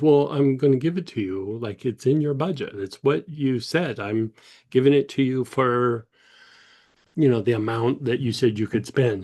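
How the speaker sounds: imitating a dealer who won't take no; insistent. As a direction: press the offer, mildly exasperated. Dealer insisting against her refusal.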